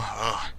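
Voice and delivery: quiet fed-up ugh; exasperated ugh; annoyed groan. Shown as a demonstration. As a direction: groan it under your breath. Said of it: "being pestered into saying it".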